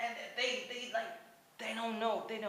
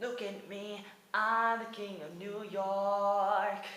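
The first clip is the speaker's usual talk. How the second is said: proud boast; 3 semitones higher, much slower than usual. Pretend. Boasting as Newsies king.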